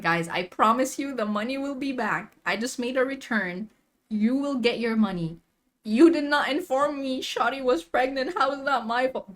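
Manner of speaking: acted pleading that builds to protest; insistent, rising self-defense to customers. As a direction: start reassuring, climb into indignant defense. Retold argument with irritated customers.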